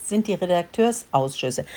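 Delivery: ordinary talk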